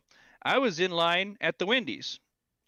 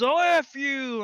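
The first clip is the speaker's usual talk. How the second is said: high, louder, slow snarl; imitating an angry retort; 10 semitones higher, 5 dB louder, slower than usual. Old man snapping back at the speaker, mock angry. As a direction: spit it back at him, hammed-up.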